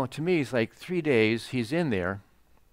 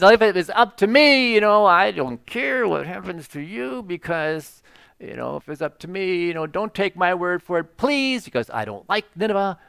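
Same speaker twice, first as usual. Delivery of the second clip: a hint of grudging reluctant preaching, higher; half-hearted prophet who wants them burned; 4 semitones higher, 3 dB louder than usual. Jonah grudgingly preaching to Nineveh, reluctant. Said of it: "goes throughout there preaching and says".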